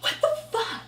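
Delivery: breathless, high laughing what the; laughing disbelief. Retold or imitated. Laughing at the rude stranger in disbelief. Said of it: "I was like".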